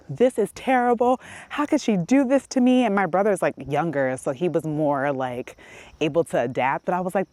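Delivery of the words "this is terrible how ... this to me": high, louder mock complaint; teen whine. Teen complaining to herself about her mom's move, mock whining. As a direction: whine like a dramatic teenager.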